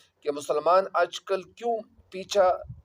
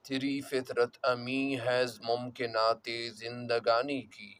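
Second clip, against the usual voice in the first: poetry recitation; 6 semitones lower, 4 dB quieter than usual. Acted. Recites the couplet being explained. (ٹھہر ٹھہر کر شعر خوانی)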